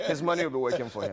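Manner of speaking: a big amused laugh carrying every word. Real, not acted. Joking about the guest's future retirement, laughing aloud.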